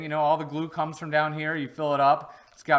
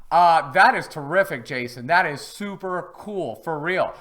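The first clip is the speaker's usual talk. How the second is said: twin brother voice; 3 semitones higher, 6 dB louder than usual. Pretend. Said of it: "that's not really my twin brother".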